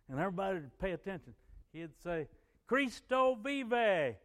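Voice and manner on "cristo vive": high, loud, drawn-out proclamation; preaching shout. Retold or imitated. Missionary friend preaching on the bus, loud proclamation. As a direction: proclaim it slowly to the whole bus. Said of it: "start preaching on the bus".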